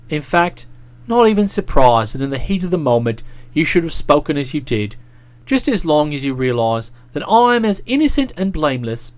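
put-on deep, smooth young man; low placating voice. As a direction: soothe her from down low. Boko continues.

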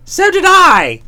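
loud, high exclamation; emphatic agreement. Acted. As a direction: burst out in heartfelt agreement. Bertie heartily agrees in dismay.

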